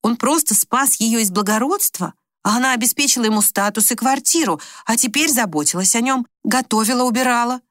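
ordinary delivery

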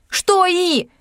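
sharp high snapped question; barked. A narrator's reading. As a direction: bark it impatiently. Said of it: "рявкнула я". (резко рявкнуть)

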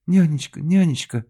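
high, loud cry of nanny. Acted. Actress crying out to her nanny, high loud cry. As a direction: call out in alarm. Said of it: "вскрикнула Зорькина".

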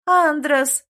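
high, loud call across the market; calling out loud to the prince; calling loudly. A narrator's reading. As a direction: shout his name to catch him. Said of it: "громко позвала принца".

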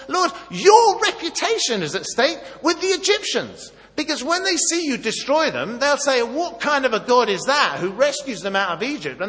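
high, loud urgent appeal; loud pleading argument. Retold or imitated. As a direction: press God about his reputation. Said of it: "he says".

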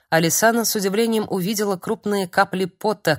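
ordinary delivery, nothing marked

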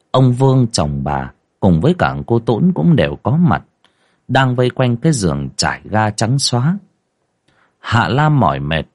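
ordinary delivery

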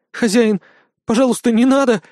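a fox's acted tearful plea; tearful pleading. A narrator's reading. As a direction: beg through mock tears. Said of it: "заплакала лиса".

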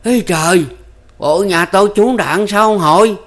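high, breaking voice, loud with dismay; giọng lạc đi vì sốc; voice cracking in shock. A narrator's reading. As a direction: ask with a voice that cracks from fear. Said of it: "lạc giọng hỏi".

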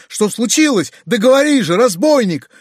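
high, loud impatient demand; exclamation. A narrator's reading. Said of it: "вскричал дядя". (громкий нетерпеливый окрик)

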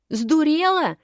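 high, loud shriek. A narrator's reading. Girl grabbed by the ear shrieks. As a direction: yelp it out in shock. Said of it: "завопила та".

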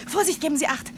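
sharp warning. Acted. Warning of a low fence.

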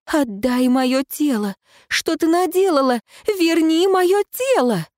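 a ghost clawing back her stolen body; ghost's demand. Acted.

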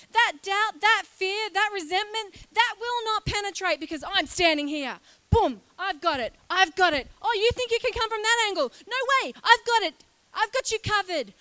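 loud, bold protector declaring; guard speaking. Acted. Peace as a guard speaks to the listener, loud and firm. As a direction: stand firm and call it out loud. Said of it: "mind and says".

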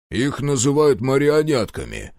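slow, know-it-all correction; a pedantic aside; showing off. A narrator's reading. General shows off his vocabulary, know-it-all. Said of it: "блеснул эрудицией генерал".

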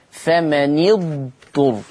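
slow فمن اضطر as "fama-ni-dturr"; short i on the nun of فمن, joined to اضطر; kasra on the nun. Shown as a demonstration. Teacher reads out the word under study, slow "fama-ni-dturr" in فمن اضطر. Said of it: "حفص يقرأ فمن اضطر بكسر النون".

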